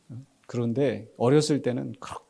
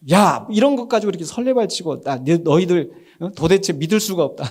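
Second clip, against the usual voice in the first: raised, exasperated telling-off; mock scolding; 3 semitones higher, 3 dB louder than usual. Preacher imagines Jesus berating frightened disciples, mock scolding. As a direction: chide them in disbelief, half joking. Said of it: "예수님이 어떤 톤으로 말씀하셨을까".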